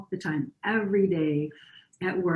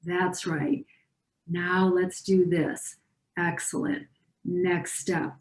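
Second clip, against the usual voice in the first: simple reassuring; slower than usual. Shown as a demonstration. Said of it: "just simple, reassuring".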